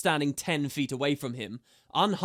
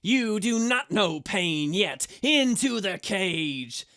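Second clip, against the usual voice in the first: shouting; 5 semitones higher, 4 dB louder, slower than usual. A narrator's reading. Asura keeps shouting at prisoner.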